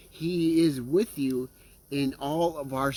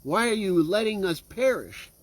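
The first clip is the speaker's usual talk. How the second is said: mild acted lament, pitched up; crying out to God; 4 semitones higher than usual. People questioning God about their troubles, mildly crying out. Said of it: "we'll cry out and say".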